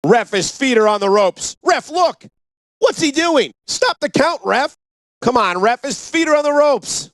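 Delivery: high, pleading shouts at the ref; yelling from the sidelines. Acted. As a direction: protest the count, calling out. Commentator yelling at the referee.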